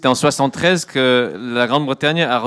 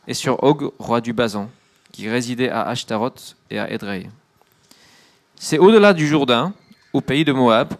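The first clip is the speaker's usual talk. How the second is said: scripture reading. Acted. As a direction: read the passage with gravity to the congregation. Interpreter reads scripture aloud. (lecture solennelle des Écritures)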